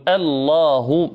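الله said very slowly with a thin hamza; careful recitation; correct light hamza. Shown as a demonstration. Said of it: "نقول".

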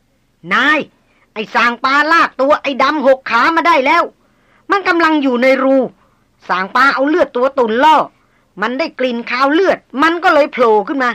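excited shout across the jungle slope; shouting from afar. Acted. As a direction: yell the news up to the boss. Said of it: "โบกมือตะโกนบอก".

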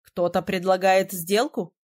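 slow, sly teasing question; snide. A narrator's reading. Prince slyly answering her offer of a kiss, snide. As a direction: drag it out slyly, lightly voiced prince. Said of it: "ехидно уточнил его высочество".

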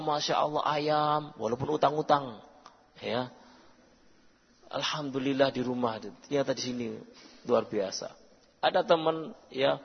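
usual speaking voice

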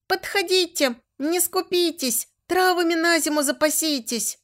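high, loud market hawker call; sing-song street vendor calling out; loud carnival barker. A narrator's reading. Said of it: "вовсю зазывал народ".

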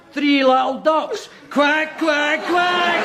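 playful quacking. Acted. Mimics caller, quacks.

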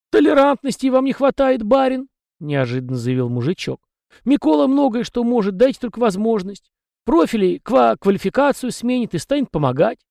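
high, folksy little peasant voice; chatty house spirit. A narrator's reading. House spirit Tikhon rambling to the young master, high and folksy. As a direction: prattle on as a talkative domovoi.

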